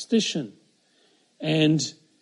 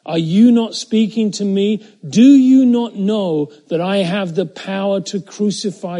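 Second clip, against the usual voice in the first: indignant demand; 4 semitones higher, 8 dB louder than usual. Acted. Pilate threatening silent Jesus.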